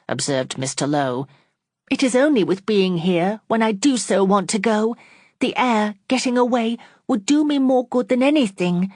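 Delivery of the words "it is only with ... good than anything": higher, rising plea for air; pleading. Acted. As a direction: beg to be let go. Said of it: "pleaded she".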